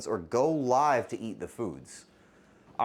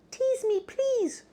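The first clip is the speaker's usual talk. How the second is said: tiny, much higher squeaky plea; small cute voice; much slower than usual. Shown as a demonstration. Streamer shows chat how to beg for the teaser in a tiny high voice. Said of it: "You have to say it like that. Small voices only".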